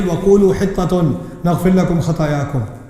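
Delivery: rapid Quranic verse recital; quick recitation. Real, not acted. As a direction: run through the verse quickly.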